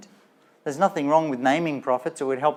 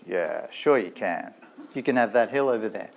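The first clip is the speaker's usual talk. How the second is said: put-on American accent; 5 semitones lower than usual. Solomon granting the wives a hill, in an American accent. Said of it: "not sure if he had an American accent".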